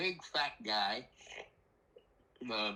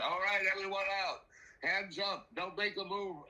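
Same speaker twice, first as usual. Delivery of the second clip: higher, commanding police voice; cop barking orders; 6 semitones higher than usual. Retold or imitated. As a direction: order them out like a tense cop. Cops ordering everyone out.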